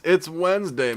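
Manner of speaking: quoting the Wednesday meme with a lift; mock meme announcement; playful meme line. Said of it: "it's Wednesday my dudes meme".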